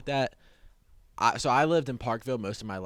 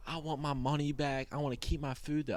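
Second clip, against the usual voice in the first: higher-pitched mock indignant demand; retold customer fit; 6 semitones higher than usual. Customer demanding a refund at the drive-thru, mock fit. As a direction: imitate an upset customer, without raising the volume. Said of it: "she's throwing a fit".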